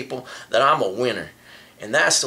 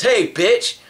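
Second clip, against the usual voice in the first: retold yell; 9 semitones higher, 5 dB louder than usual. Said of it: "And he says".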